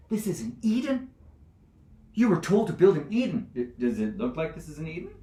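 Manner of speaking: indignant scolding. Acted. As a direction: press the crowd with agitated, high-pitched questions. Judge scolds crowd about Eden.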